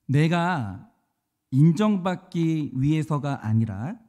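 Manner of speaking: slow, deliberate read-out with long pauses; solemn question reading. Acted. Preacher reading application questions to the congregation, solemn and measured. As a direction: put each phrase to the congregation, slowly.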